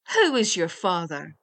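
loud, forceful question; blustering storybook interrogation; demanding waggoner. A narrator's reading. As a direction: press him for an answer.

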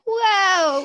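retold amazed wow; wowed reaction. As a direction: act out being bowled over. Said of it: "I'm just like".

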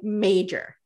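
MAJOR repeated slowly and deliberately; re-emphasized MAJOR. Retold or imitated. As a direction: underline MAJOR as a single weighted word. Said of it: "she reemphasizes".

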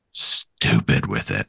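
low, drawn-out silly voice; stupid character voice. Shown as a demonstration. Player showing how to remember a character voice, deliberately stupid. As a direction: drop low and stretch it out stupidly. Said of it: "be just so".

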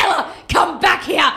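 high-pitched imitation of a distant call. Boyfriend to girlfriend in grass fields, calling out. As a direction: call her back, put-on and high.

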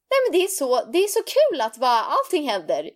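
a light imitation of an excited mother; mom's friend voice. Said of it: "hon får en sådär annan röst".

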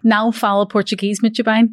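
English speaker attempting a Portuguese accent; Portuguese phrase in English accent. Shown as a demonstration. English host shows co-host her one Portuguese phrase, in an English speaker's Portuguese accent. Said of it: "my Portuguese accent and everything's probably so bad".

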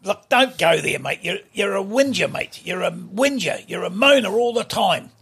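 gruff mock telling-off, pushing it; old man rips into the host for fun; a pensioner playfully scolding the host; staged scolding. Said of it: "have a staged argument".

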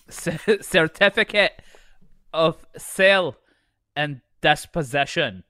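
put-on emphatic, rough Scottish accent. Lord reading out the certificate, rough Scottish accent. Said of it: "don't do Scottish accent".

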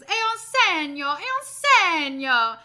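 put-on high, loud, slow old Italian lady exclaiming. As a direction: cry out slowly and high, like an old Italian woman seeing a sign. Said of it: "the old lady stands up and she goes".

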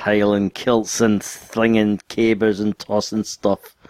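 slow, drawn-out caricature Scottish; mock Scottish accent. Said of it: "All I can hear is angry Scottish".

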